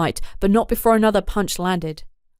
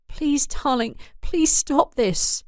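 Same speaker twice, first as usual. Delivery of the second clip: higher, slow desperate begging; pleading; 6 semitones higher, slower than usual. Acted. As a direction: plead with him to stop. Wife begs her husband.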